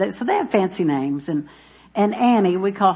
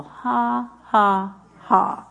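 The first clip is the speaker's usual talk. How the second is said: mock laugh; much slower than usual. Shown as a demonstration. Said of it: "then laugh at the devil".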